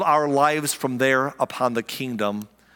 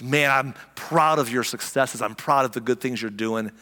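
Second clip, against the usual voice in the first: proud father; 5 semitones lower than usual. Retold or imitated.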